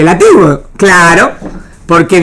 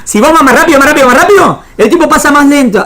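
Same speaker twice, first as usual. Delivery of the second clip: rising higher with each más rápido; building excitement; 6 semitones higher than usual. Shown as a demonstration. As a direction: speed up the repetition as if accelerating. Teacher building speed repetition.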